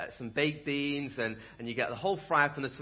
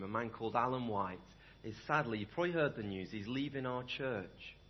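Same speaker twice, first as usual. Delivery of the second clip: sad announcement; 5 semitones lower than usual. Real, not acted. Announces beloved man leaving.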